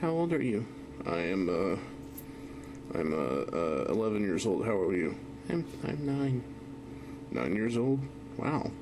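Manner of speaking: put-on high cutesy little girl voice; squeaky playful child voice; cute girly voice.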